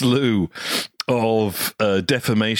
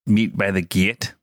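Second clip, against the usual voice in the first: Northern Irish accent. Shown as a demonstration. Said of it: "practising the Northern Irish line".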